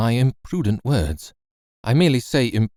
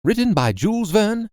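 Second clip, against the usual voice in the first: higher, lively sign-off to the listeners; chatty host outro; 5 semitones higher than usual. Acted. Narrator bids farewell to her lone wolves, playful and higher. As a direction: wrap up the episode with a fond, playful farewell.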